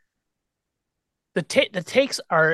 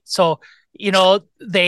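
Chicago caller voice; 2 semitones higher, 4 dB louder, slower than usual. Retold or imitated. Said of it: "Is that a real voice".

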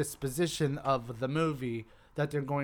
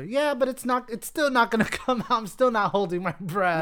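mock skeptic; 7 semitones higher, 4 dB louder than usual. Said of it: "I would tell you".

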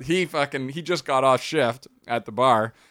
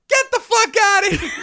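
laughing disbelief; 8 dB louder than usual. Retold or imitated. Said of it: "I'm like".

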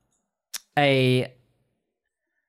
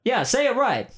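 high, pompous skeleton voice; 6 semitones higher than usual. Acted. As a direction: play the huffy dapper skeleton. Skeleton character talks to player.

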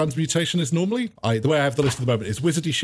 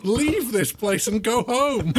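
higher, slow pleading voice; plaintive wish; 7 semitones higher, slower than usual. Acted. Pupil desperate to escape the school, slow plaintive wish. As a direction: draw it out like a forlorn plea.

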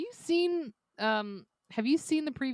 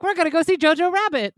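excited coworkers; 6 semitones higher, 12 dB louder, much faster than usual. Retold or imitated. Retold coworkers' announcement.

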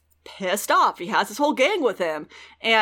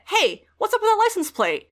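much higher, chirpy imitation of a daughter asking; mock innocent question; 12 semitones higher than usual. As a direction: pitch it way up like a sweet inquiry. Veronica asking dad, retold.

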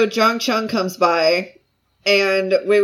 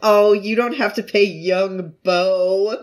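laughing gush; slower than usual. Retold or imitated. Seller gushing, laughing quote.

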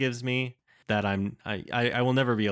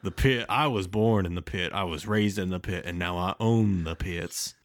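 grizzled cowboy voice. Acted. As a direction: play a grizzled Sam Elliott type. Voicing grizzled cowboy pit boss.

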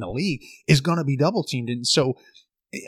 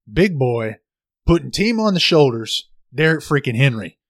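louder hype-man shout-out, building up; hype announcer; 2 semitones higher, 7 dB louder than usual. Real, not acted. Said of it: "why I just explained him that way".

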